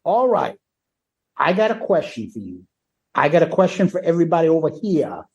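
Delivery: a light rock frontman's stage banter; lightly voiced rock frontman addressing the crowd; imitating the frontman. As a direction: mimic the frontman working the crowd. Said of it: "this is what he says".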